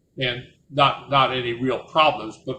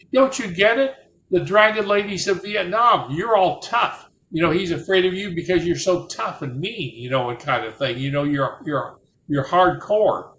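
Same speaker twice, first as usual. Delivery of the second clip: amused explaining; 5 semitones higher than usual. Retold or imitated. Vietnamese man laughing, explaining joke.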